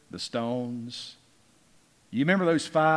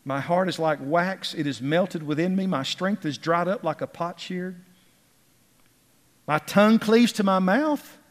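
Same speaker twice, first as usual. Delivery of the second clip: psalm read out, building to a raised cry; impassioned pulpit recitation; fervent scripture reading; 6 semitones higher, 5 dB louder than usual. Acted. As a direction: declaim each phrase, lifting at the end. Reads the psalm aloud fervently.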